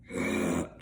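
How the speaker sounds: failed growl attempt. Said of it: "I can't even do it".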